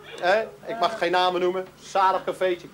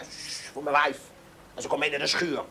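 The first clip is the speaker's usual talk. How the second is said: hushed; 5 semitones lower, 5 dB quieter than usual. Retold or imitated. Farmer hushing about his wife.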